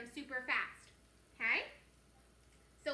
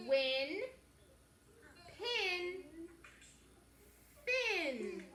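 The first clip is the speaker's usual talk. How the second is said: quicker, punchier words; faster reading; 4 semitones higher, much slower than usual. Shown as a demonstration. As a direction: read them a bit faster. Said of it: "a little bit faster".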